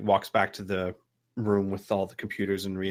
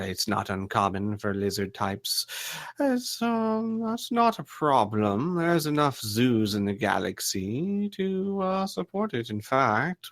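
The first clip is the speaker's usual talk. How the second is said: large gentleman. Acted. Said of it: "large gentleman next to her goes".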